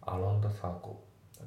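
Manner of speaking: "アロンダサークル" with the g of along left out; dropped G. Shown as a demonstration. Teacher showing learners the along sound, dropped G. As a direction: say "アロンダ" smoothly, no hard g. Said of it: "Gが抜けて".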